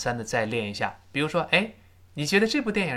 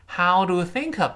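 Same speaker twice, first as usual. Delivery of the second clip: wrong version; 5 semitones higher, 3 dB louder than usual. Shown as a demonstration. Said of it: "这不行哦".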